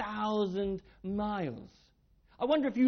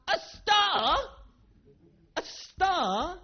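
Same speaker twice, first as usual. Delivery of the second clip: amazed question; 9 semitones higher, 3 dB louder, much slower than usual. Acted. Children's answer echoed in wonder.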